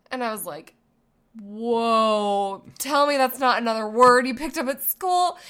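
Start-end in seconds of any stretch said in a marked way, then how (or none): 1.4-5.4 loud, alarmed whoa then a rush of questions; shocked mom. Retold or imitated. Mom in the car catching her son's bad word, shocked and loud. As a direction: react as a startled parent catching a bad word.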